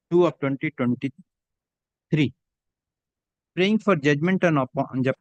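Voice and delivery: steady, measured dictation of a judgment for the record; dictating a court order. Acted. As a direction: read each phrase out clearly for the stenographer to type.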